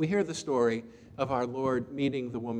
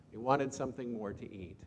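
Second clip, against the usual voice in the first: softer echo of the line; quiet repeat; 7 dB quieter than usual. Shown as a demonstration. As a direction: let it sink in, softer. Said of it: "repeated softer".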